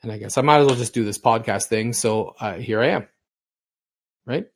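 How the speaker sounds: usual speaking voice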